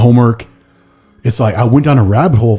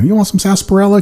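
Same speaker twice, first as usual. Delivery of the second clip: high-pitched hammed-up cowboy; put-on cowboy audition voice; 11 semitones higher, faster than usual. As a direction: offer it like a cartoon cowboy, pitched way up. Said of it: "Do a cowboy".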